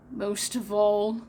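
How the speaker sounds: a pirate captain's passion; passionately. Acted. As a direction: lean into each word with passion. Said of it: "Hook was saying passionately".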